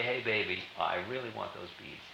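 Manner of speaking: soft, coaxing plea for the beads; coaxing hey baby. Retold or imitated. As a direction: sweet-talk him quietly, wanting something.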